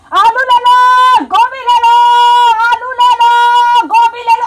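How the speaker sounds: sing-song street vendor shout; vendor call. Retold or imitated. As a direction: call out like a street vegetable seller. Imitates street vegetable vendor.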